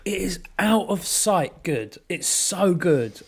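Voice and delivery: slow, soft near-whisper of delight; hushed rave. Real, not acted. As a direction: savour the words in a whisper. Raving about turkey curry.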